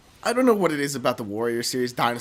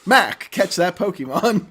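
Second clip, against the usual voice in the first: slow, louder robotic announcer; automated voice; 4 semitones higher, 5 dB louder, slower than usual. Pretend. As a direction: sound like a canned system message. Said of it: "automated voice messaging systems".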